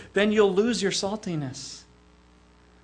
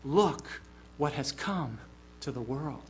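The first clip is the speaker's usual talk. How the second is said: delight; 6 semitones lower, 10 dB quieter than usual. Retold or imitated. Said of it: "but rather in delight".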